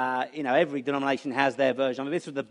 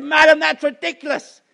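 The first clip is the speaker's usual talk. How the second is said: higher, louder Southern preacher voice; 11 semitones higher, 9 dB louder than usual. Retold or imitated. Preacher scoffing at the old lady, higher, louder Southern preacher voice. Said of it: "they speak quite funny with Southern Baptists".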